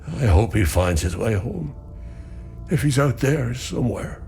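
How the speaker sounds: measured, sorrowful recollection; grieving. Acted. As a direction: mourn your sons with restrained hope. Villager recounts losing sons.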